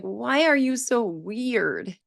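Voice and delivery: imitated child's intonation. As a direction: imitate a child puzzled by a weird grown-up. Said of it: "With the intonation".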